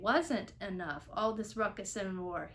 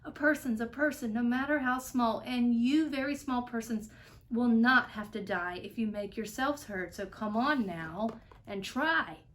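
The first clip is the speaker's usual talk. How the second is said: calling out; 3 semitones higher, 3 dB louder than usual. Acted. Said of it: "he managed to call to the mayor".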